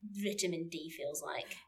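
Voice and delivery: high, loud burst of joy, then trailing off; giddy delight. Retold or imitated. Mock delight at first sun after lockdown, loud and high. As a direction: gasp with delight at the sunshine.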